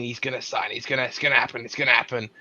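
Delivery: devil on the shoulder, hushed and tempting. Pretend. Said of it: "that little devil inside of me saying".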